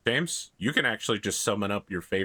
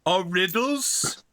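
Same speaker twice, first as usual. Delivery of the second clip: slow, higher hurt troll voice; offended troll; 8 semitones higher, 3 dB louder than usual. Acted. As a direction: sound wounded for the troll.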